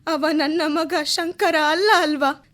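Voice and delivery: tearful plea through sobs; a frightened mother asking through tears; weeping as she asks; crying. Acted. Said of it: "Kamalamma, ಅಳಬೇಡಿ".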